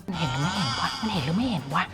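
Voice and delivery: quietly panicked, muttering to herself; anxious murmur. Retold or imitated. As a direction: mutter it fast under your breath, worried. Retelling her own panicked thought. (พึมพำด้วยความกังวล)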